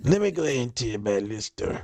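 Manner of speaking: put-on light Southern Black accent. Retelling the guest's line in a light Southern accent. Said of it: "in your Southern black accent".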